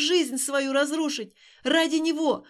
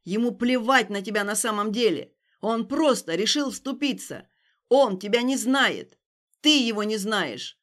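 shouting; 6 dB louder than usual. Acted. Stas shouting at Alina over the stranger. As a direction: bellow it at her.

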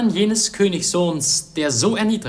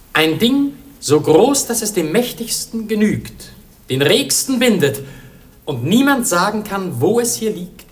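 loud, higher, ringing declamation; triumphant proclamation; 5 semitones higher, 5 dB louder than usual. Acted. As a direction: announce the answer to the court in triumph. Prince solves the riddle aloud. (laut und triumphierend verkündet)

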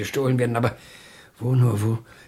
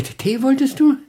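sudden recollection; 13 semitones higher, 6 dB louder than usual. Acted. Suddenly remembers the tea.

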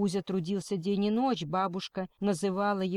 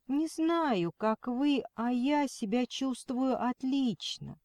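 shaky voice, trying to sound firm; trembling voice; 5 semitones higher, slower than usual. Acted. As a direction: fake firmness, voice quavering. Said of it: "голос предательски задрожал".

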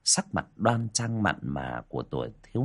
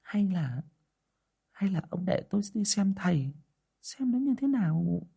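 high, soft pleading wife; timid wife's request; 9 semitones higher, 5 dB quieter than usual. A narrator's reading. Wife timidly proposing to her husband, soft and high. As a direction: ask the husband meekly, voice raised high. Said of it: "đề nghị".

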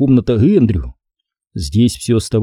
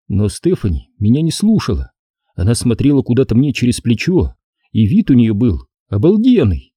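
usual speaking voice

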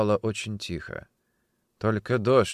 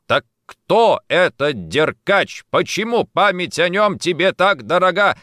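loud, insistent questioning, rising higher; forceful demand; pressing interrogation; 8 semitones higher, 6 dB louder than usual. Acted. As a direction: hammer the questions at her. Interrogator presses the crying woman.

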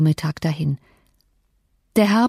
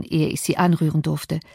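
ordinary delivery

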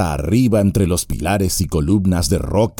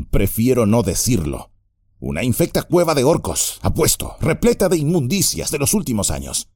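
high, fast, grossed-out voice; disgusted hobbit; 5 semitones higher than usual. Acted. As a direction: shudder at the thought of orcs. Sam disgusted. (hobbit asqueado)

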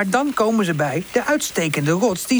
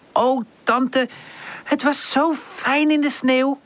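happy sigh; 7 semitones higher, slower than usual. Acted. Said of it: "zucht Pip".

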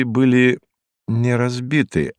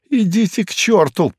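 a higher, rasping curse; hoarse curse; 10 semitones higher than usual. Acted. Hinkus rasping a curse at the detective who presses him. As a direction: rasp it out at the detective. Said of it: "прохрипел он".

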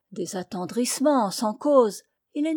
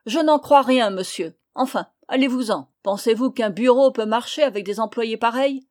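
crié; 4 dB louder than usual. Acted.

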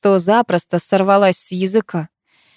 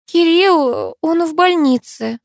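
much higher, slow «Кирилл» falling, near tears; upset news; 10 semitones higher, slower than usual. Acted. Masha tells Karina Kirill is in hospital, upset and high. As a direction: break the news with a trembling high voice. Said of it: "сбивчиво начала она".

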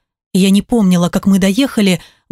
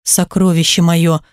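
voice breaking; 4 semitones lower than usual. Acted. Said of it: "дрогнувшим голосом".

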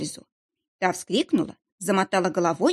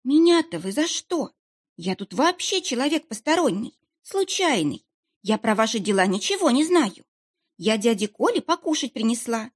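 high, whiny pleading of a feigned simpleton; plaintive, trembling; 4 semitones higher than usual. Pretend. Begging the interrogator she's just an innocent niece, plaintive and trembling. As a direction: act the harmless fool, voice pitched up and quavering. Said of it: "проговорила я жалобным, дрожащим голосом".

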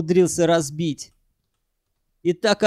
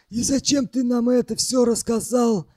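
higher, put-on voice, sullen; sullen question; 6 semitones higher than usual. A narrator's reading. Arkadich questioning why they were told, sullen. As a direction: ask it grudgingly in a raised voice. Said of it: "спросил угрюмо Аркадич".

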